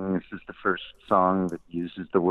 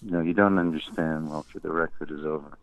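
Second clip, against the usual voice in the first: retold firm dismissal; 2 semitones lower than usual. Boss repeats his verdict, retold.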